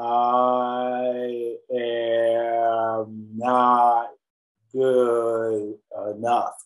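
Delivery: very slow, drawn-out words with a long stretched "I". Exercise in sounding out a difficult thought, very slow speech. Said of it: "Say difficult thoughts very, very slowly, like".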